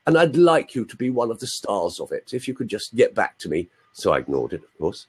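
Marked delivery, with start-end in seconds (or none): 0.1-3.7 put-on posh English schoolboy accent, lightly done; mild mock-posh English; terribly posh. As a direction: imitate a well-spoken choirboy with a posh accent. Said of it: "he was terribly posh".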